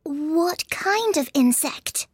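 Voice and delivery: put-on slow, high, whispery girl's question; a little anxious. A narrator's reading. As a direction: ask warily in a high girlish voice. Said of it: "Alice inquired a little anxiously".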